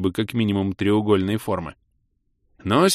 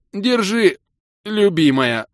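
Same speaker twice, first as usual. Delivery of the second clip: sputtering out words between coughs; gasping it out after swallowing seawater; coughing up water; 9 semitones higher, 3 dB louder, slower than usual. Acted. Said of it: "Откашливаясь солёной водой, за два раза произнёс я".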